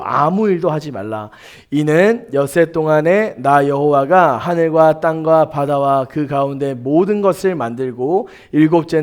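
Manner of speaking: measured, level-toned Bible reading; scripture reading. Acted. Preacher leading the congregation in responsive scripture reading, measured recitation. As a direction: read the commandment out solemnly, line by line.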